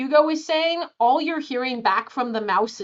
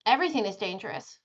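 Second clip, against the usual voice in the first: lightly voiced timid mouse; softer, lower, quick mouse line; 5 semitones lower, 6 dB quieter, faster than usual. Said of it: "the mouse looks at you and goes".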